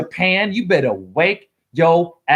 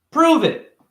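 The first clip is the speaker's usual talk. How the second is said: put-on higher little kid voice; 12 semitones higher than usual. A kid answering a stranger, higher small voice. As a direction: answer like a shy ten-year-old.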